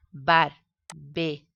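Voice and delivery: Barbería drawn out slowly, syllable by syllable; slow syllable split. Shown as a demonstration. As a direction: pull Barbería apart into its syllables. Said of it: "hacemos la separación". (Barbería despacio, separando sílabas)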